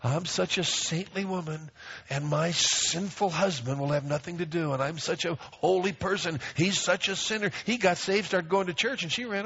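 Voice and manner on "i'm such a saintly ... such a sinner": self-pitying martyr. Retold or imitated. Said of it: "her whole life revolved around".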